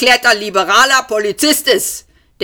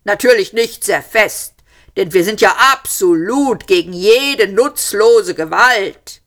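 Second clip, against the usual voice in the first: high, louder shouted speech throughout; shouting policeman; 8 semitones higher, 3 dB louder than usual. A narrator's reading. Policeman shouting his absurd ultimatum, loud. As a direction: shout the whole speech across the room. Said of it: "schrie der Polizist".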